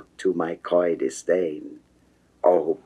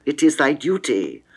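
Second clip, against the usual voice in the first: ordinary delivery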